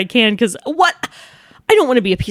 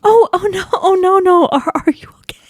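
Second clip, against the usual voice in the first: breathy, whispered oh no, higher; hushed concern; 8 semitones higher than usual. Retold or imitated. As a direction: gently whisper to a crying stranger. Comforting a crying stranger.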